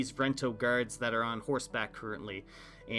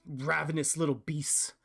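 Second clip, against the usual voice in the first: a much higher, urgent bird-creature voice; Aarakocra bird-man; 4 semitones higher than usual. Acted. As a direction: squawk out the worry about the one that escaped.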